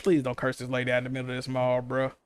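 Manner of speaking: soft, low urgent plea; hushed pleading. Retold or imitated. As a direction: hush her, keep it down. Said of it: "I'm like".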